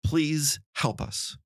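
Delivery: drawn-out plea, very slow; a hint of a pleading crowd, slow. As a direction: beg for help, slowly. Society pleading to a leader.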